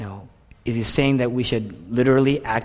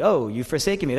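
mechanical recitation; faster than usual. Shown as a demonstration. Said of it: "as a fact, mechanically".

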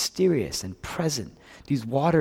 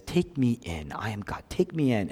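understated, composed invitation; controlled, calm; 3 semitones lower, 6 dB quieter than usual. Acted. Jesus to the terrified people in the boat, calm and controlled. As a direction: keep it contained, softer on the middle phrase. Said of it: "He's controlled and he says".

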